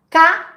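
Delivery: "Ca" said alone as one loud syllable; isolated syllable. Shown as a demonstration. Teacher splitting cavalo into syllables, "Ca" said alone. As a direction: set "Ca" apart, firm and loud. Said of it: "consoante vogal".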